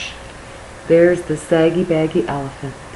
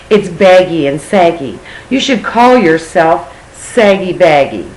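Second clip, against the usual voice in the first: loud, higher saucy parrot; 3 semitones higher, 4 dB louder than usual. Acted. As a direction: tease him like a cheeky parrot. Parrot voiced in story.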